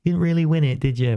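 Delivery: lightly voiced smug critic; sceptical doubter. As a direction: sneer it like a rival fan belittling the win. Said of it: "people out there going".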